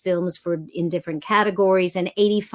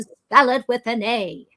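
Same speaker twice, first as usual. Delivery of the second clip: Katharine Hepburn; 3 semitones higher than usual. Retold or imitated. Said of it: "remember that from Catherine Hepburn".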